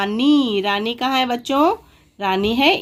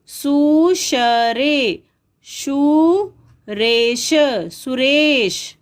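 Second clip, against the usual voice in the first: 1 syllable by syllable; 2 semitones higher, much slower than usual. Shown as a demonstration. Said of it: "unscrambling letters slowly".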